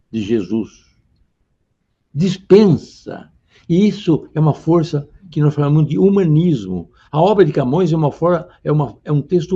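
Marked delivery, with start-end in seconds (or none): 2.1-3.3 slow, loud emphatic Dispensa; stressed word. Shown as a demonstration. Teacher stresses Dispensa to the class, slow and loud. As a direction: lean hard on Dispensa, drawn out and loud. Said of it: "Afonso dispensa o auxílio de Deus".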